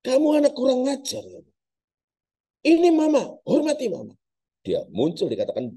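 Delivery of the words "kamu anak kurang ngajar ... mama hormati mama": put-on loud, furious scolding of a child; raging ghost mother. The false mother rages at her son for rejecting her. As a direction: rage at the disrespectful son. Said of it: "Ngamuk besar".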